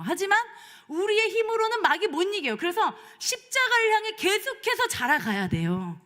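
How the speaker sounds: high, loud sermon climax; preaching at full force. Real, not acted. Pastor rousing the congregation, preaching loud and high. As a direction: press 힘으로는 home like a preacher.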